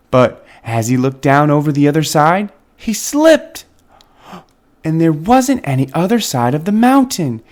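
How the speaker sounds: gentle storybook narration, read aloud; reading to children. A narrator's reading. Reading Harold's story aloud to young viewers, storybook voice. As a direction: tell it like a bedtime story to little ones. Reads picture book aloud.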